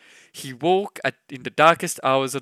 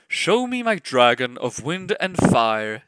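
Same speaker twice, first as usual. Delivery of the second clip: ordered; 4 dB louder than usual. Acted. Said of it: "the Emperor ordered".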